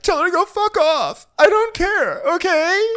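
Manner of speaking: high, loud bratty snap; bratty Kyle. Retold or imitated. Kyle dismissing Dorit, high and bratty. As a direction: spit it out like a sulky teen. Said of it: "And Kyle's like".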